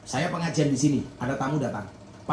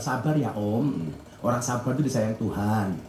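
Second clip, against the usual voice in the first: patient, slowed-down reassurance to an impatient guest; slow soothing reassurance; 7 semitones lower than usual. Retold or imitated. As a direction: stretch each word to calm the guest. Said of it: "Tamumu disabar".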